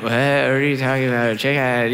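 groggy, low mumbled question; sleepy slurred confusion; just waking up. Retold or imitated. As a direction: mimic a half-asleep husband. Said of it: "I'm, like, waking up like".

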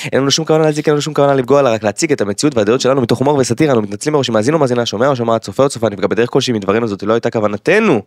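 rapid official disclaimer read; formal disclaimer. Acted. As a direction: rattle it off like legal fine print. (הקראת הסתייגות רשמית)

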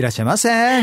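perky clerk greeting; shop welcome. Pretend. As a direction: greet customers like a store clerk. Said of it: "みたいな".

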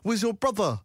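high, slow imitation of a guy at the mall; imitating a stranger. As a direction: put on the stranger's drawn-out question. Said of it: "this guy came over and he goes".

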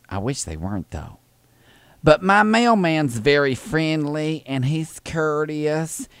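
put-on Southern old lady voice; sweet old lady caller, fussy and polite. Prank caller playing Thelma to the postal clerk, sweet old lady voice.

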